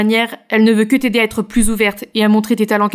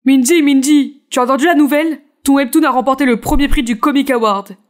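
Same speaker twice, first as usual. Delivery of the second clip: higher-pitched excited colleague; 4 semitones higher than usual. Acted. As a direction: burst in with big news. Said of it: "un collègue s'est précipité".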